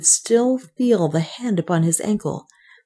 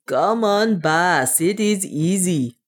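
shouting; slower than usual. A narrator's reading. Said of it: "It was Otter shouting".

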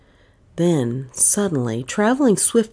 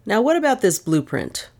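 sharp query; 4 semitones higher than usual. Acted. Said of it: "he queried sharply".

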